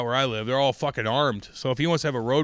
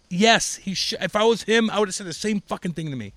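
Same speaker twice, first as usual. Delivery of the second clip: emphatic admission; 7 semitones higher, 4 dB louder than usual. Retold or imitated. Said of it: "I'm like".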